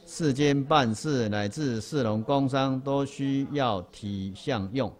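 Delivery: slow, measured text recitation; reading aloud together. Shown as a demonstration. Teacher leads the group reading, slow and measured. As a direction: read it out word by word with the class. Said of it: "最后一行一起念一下哈。".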